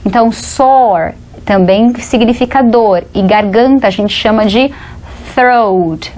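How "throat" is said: throat with TH running into R; tongue-rolled "thr" at the start of throat; TH plus R. Shown as a demonstration. Teacher explains the tongue movement, throat with TH then R. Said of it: "é o T H junto com R".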